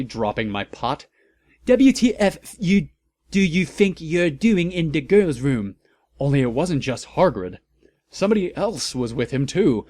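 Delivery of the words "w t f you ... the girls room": very high loud indignant yell; angry shout. A narrator's reading. Heroine yells at Hargrid in the bathroom, high and loud. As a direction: scream it at the intruders. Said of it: "I shouted angrily".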